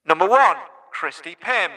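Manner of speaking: booming Tannoy announcer, brief attempt; stadium announcer voice. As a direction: read the team like a PA announcer. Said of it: "put your Tannoy P A voice and do your best Alan".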